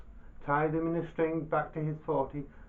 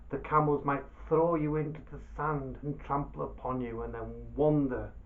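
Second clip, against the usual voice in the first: much louder, pushy boasting; blustering merchant; 2 semitones higher, 8 dB louder than usual. Acted. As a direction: bluster and brag to scare him. Baba Abdallah persuades loudly.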